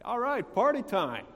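high, loud mock enthusiasm; hammed-up party excitement; mock party cheer. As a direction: whoop it up as if thrilled. Sarcastic imagined cheer of elder brother.

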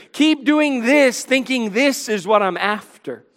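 mildly sarcastic, emphatic urging. Acted. Preacher paraphrases God mocking Israel's religious charade, mildly sarcastic. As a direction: urge them on with a touch of mock approval. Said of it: "there's sarcasm in chapter four".

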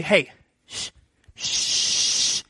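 hissed hush, breathy and soft; shushing. Retold or imitated. Disciples hushing the blind beggar, sharp shush. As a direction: hush him up fast.

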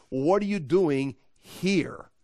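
slow, drawn-out disbelieving question; incredulous. Acted. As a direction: stretch it out, as if baffled to find him here. Acts out God's baffled question.

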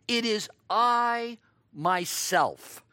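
slow, weighty "It is I myself."; slowed, emphatic "It is I myself.". Acted. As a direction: lean on "It is I myself." word by word. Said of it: "This last phrase is emphatic".

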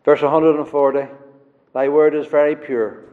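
"Thy word is very pure" tossed off briskly in passing; quick mention. Shown as a demonstration. Preacher quickly repeating the verse to the congregation, brisk. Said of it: "I just pointed out very quickly".

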